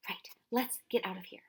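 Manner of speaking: hushed unvoiced whisper. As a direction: whisper it, sneaking away. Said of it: "the professor whispered".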